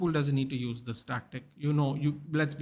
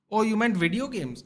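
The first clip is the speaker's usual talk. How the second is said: sudden realization, higher and louder; surprised; 7 semitones higher, 5 dB louder than usual. Real, not acted. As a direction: caught off guard. Realizes he misunderstood the question.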